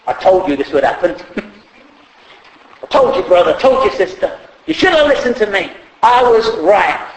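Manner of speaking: smug, singsong told-you-so; hammed-up know-it-all gloat. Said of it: "that sort of gloating".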